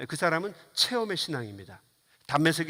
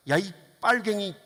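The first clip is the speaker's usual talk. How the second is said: mock heckling; 3 semitones higher, 3 dB louder than usual. Passerby cursing at an election candidate, mock abusive yell. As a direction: imitate an angry heckler, ending in a yelp. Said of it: "그러면서 욕을 해요".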